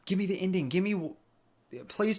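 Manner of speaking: breathless whisper, pleading; whispered plea. Real, not acted. Player begging the game for its ending, whispered plea. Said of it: "pleading for ending".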